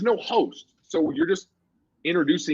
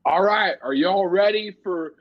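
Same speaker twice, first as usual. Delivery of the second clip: higher-pitched mock host hyping a crowd; retold emcee's call to the audience; imitated stage introduction; 5 semitones higher than usual. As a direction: announce the next act, playfully imitated. Retells introducing acts from stage.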